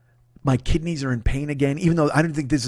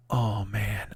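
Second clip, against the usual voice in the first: mild mock groan; 8 semitones lower, 9 dB quieter than usual. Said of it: "I don't say that like".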